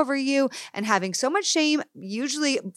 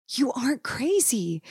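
hushed, breathy whisper to herself; whispered self-reassurance; 5 semitones higher than usual. Retold or imitated. Remembering telling herself on the floor, whispered. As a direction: whisper it to steady yourself. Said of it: "I remember saying".

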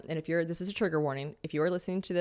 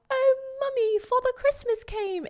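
put-on very high, slow British little-boy voice; squeaky posh British kid on Christmas morning; British child; slower than usual. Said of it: "picturing James running down the stairs".

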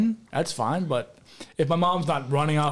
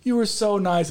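higher-pitched imitation of gushing thanks; put-on effusive praise; mock gushing; 5 semitones higher than usual. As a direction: gush like a grateful mourner, mockingly. Imitates guests gushing praise at funeral.

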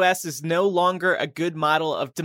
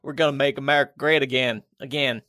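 Republican Jesus slogan; faster than usual. Acted. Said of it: "Republican Jesus rides again".

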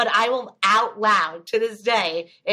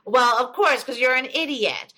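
mock-obvious teasing, a bit louder; imitated joking jab; 3 semitones higher, 3 dB louder than usual. Friend teases her in front of family, joking jab. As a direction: retell a friend's kidding put-down. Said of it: "like, kidding around".

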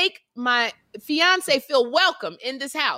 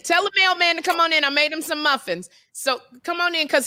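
mock call; 5 semitones higher than usual. Calling mailman in, acted.

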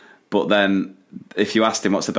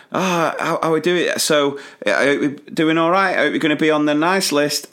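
put-on light, higher, coaxing tone to a child; sweet coaxing voice; 5 semitones higher than usual. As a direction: coax the kid gently, a bit higher. Asking a kid politely, higher voice.

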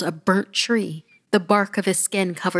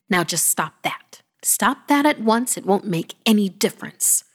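barked order; 3 semitones higher, 3 dB louder than usual. Acted. Granny silencing the protesting child, barking. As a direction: bark it to shut down the protest. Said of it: "she barked".

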